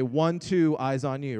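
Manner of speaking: singsong class response; kindergarten teacher voice. Shown as a demonstration. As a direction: chant the answer back like kids. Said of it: "You say".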